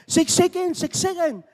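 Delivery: high, loud yell of six seconds; coach yelling. Retold or imitated. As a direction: shout the time rule at the players. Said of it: "ng coach niya". (sigaw ng coach na mataas at malakas)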